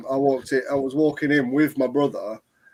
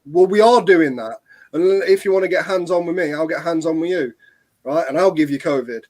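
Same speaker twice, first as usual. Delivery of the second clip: raised, firm retelling of a standoff; defiant retort; 3 semitones higher, 5 dB louder than usual. Retold or imitated. To the shop worker at the door, a defiant louder retort. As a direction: push back hard, louder, daring them.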